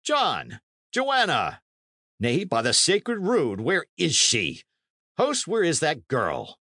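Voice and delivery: high-pitched calls, no real shout; calling out. A narrator's reading. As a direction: call for someone missing, then demand an answer. Knight calls for the missing girl.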